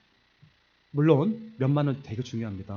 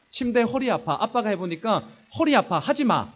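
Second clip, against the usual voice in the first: 살짝 높고 큰 단호한 아빠 말투; 아이들에게 못 박듯 말하는 아빠; 아빠 훈계조; 5 semitones higher, 3 dB louder than usual. Retold or imitated. 아빠가 아이들에게 훈계. (아이들에게 단호하게 말하는 아빠 흉내)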